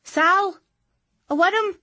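put-on high, loud child's call; excited shout. A narrator's reading. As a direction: shout it out with delight. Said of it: "She shouted".

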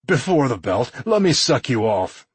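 insistent coaxing plea; wheedling. A narrator's reading. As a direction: press the request, wheedling. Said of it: "he wheedled".

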